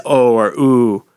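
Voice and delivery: attempted Australian vowels; put-on Australian accent. Shown as a demonstration. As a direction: try an Australian "Oh". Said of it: "if an Australian says".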